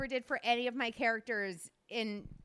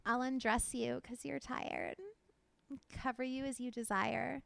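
put-on baby doll stripper voice. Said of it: "you always say you have a baby doll stripper voice".

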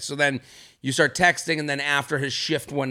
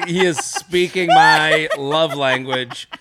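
laughing mock swoon; 3 semitones higher, 6 dB louder than usual. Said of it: "You're like".

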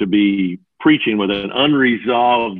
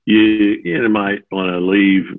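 lower, offhand warning; casual and unexcited; 3 semitones lower than usual. Shown as a demonstration. Man warning a crowded theater of a fire, casual and unbothered. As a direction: mention the fire like it's nothing. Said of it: "You don't believe that".

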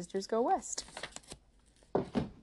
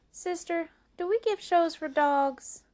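doubtful question; 11 semitones higher, 6 dB louder than usual. Acted.

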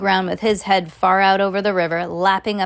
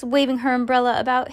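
ordinary delivery, nothing marked

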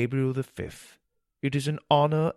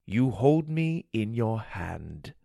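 calm and wise; slower than usual. Acted. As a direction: settle him gently. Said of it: "The voice sounded confident and wise".

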